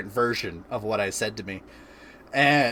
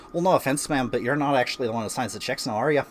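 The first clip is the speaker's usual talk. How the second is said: lightly put-on Irish lilt; attempted Irish accent; faster than usual. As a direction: have a go at an Irish accent, retelling your own comeback. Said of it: "gonna be able to hit the Irish accent".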